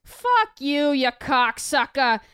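a hint of a rude Boston wife in Boston accent, slow on cocksucker. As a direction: toss off a crude Boston-accent insult. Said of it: "a woman with a Boston accent called me a cocksucker".

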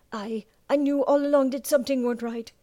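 a sailor insisting he knew it all along. Acted. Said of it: "Another said".

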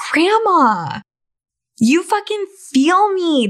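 sarcastic mock agreement. Mock reply to grandma's advice.

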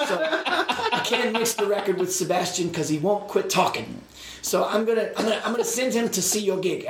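giggling while imitating a German producer; laughing through German accent. Producer on phone asking favor, laughing German accent. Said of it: "in that thick German accent".

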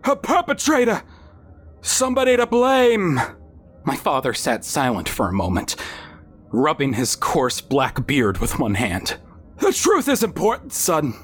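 high, measured fatherly voice; father character voice. A narrator's reading. Father questioning his son at bedside, high measured voice. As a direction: voice the father pitched well up, steady.

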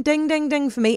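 triumphant. Real, not acted. Gloating after winning the debate.

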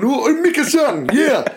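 put-on high, lilting Japanese-accented voice, a bit fast. Reading Kenzuki aloud to the class, in a high hammed-up Japanese accent. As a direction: read Kenzuki with a heavy comic Japanese accent, barely holding in laughter. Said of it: "he's there going".

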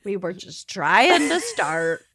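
tearful, wheezing through laughter; laughed-out, teary words; crying with laughter. Real, not acted. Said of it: "I can't stop crying".

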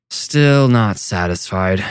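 put-on slow drunken slurring; slurred. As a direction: drag the words like a drunk. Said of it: "Seth slurred".

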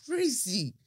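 loud, high-pitched angry mum demanding a refund; mum on the phone. Retold or imitated. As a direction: shriek at the agent like an outraged mother. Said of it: "get my mum to call and do the whole".

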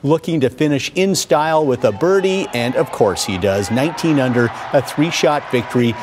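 lively highlight narration, calling each shot; golf commentator. Acted. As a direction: call the golf highlights like a broadcaster. Narrates golf highlights over footage.

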